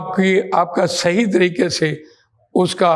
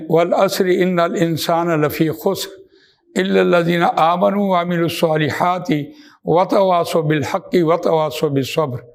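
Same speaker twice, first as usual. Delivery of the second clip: Quran recitation. Acted. Recites Surah Al-Asr in lecture.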